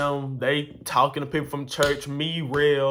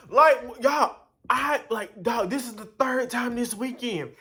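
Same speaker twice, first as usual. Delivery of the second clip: exasperated; 10 semitones higher than usual. Real, not acted. Venting to viewers, exasperated.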